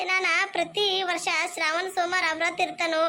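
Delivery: holding back sobs; wife weeping to her friend about her husband; tearful. Acted. Wife tells friend of her suffering.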